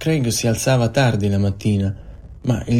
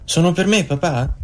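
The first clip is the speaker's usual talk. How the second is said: excited shout; 7 semitones higher than usual. A narrator's reading. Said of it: "gli corse incontro gridando".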